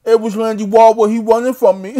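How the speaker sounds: Demetrius Andrade. Retold or imitated. Imitating the boxer bragging about his rival, babyish lisp. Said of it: "talking like a little baby".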